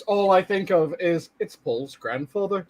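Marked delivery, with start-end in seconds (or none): 1.4-2.7 Liverpudlian line. Shown as a demonstration. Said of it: "anytime that I need that voice".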